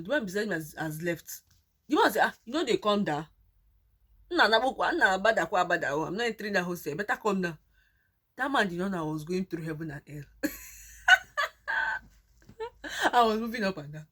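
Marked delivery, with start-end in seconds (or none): 2.2-7.6 imitating the impatient driver calling out; man urging her. 10.3-12.0 a high burst of laughter. Real, not acted. Laughing at her own story, high burst.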